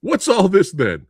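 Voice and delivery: mock English catchphrase delivery; horrible English accent. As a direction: put on a bad English accent. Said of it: "horrible English".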